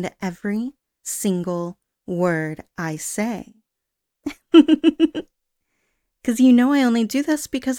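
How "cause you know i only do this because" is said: unhinged giggle. Acted. Yandere laughs at captive.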